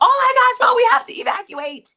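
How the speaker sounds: shrieking, very high-pitched and very loud. Retelling a phone call from a child who must evacuate: imitating someone screaming. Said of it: "she calls me and she's screaming".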